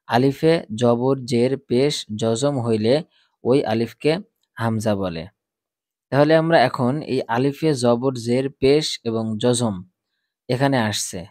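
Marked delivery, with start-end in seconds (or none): 0.1-5.2 slow recited rule. Shown as a demonstration. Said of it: "আমি যখন বলবো তখন আমার সাথে সাথেই".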